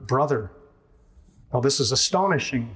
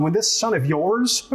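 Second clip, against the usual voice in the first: scornful son of yours; 5 semitones higher than usual. Retold or imitated. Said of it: "This is you and your son".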